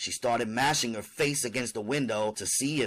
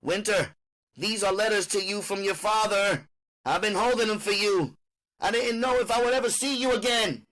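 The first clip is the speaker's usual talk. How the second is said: high, pleased, wheedling mother; 10 semitones higher, 4 dB louder than usual. Acted. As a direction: dangle the letters proudly. Mother offers father's letters.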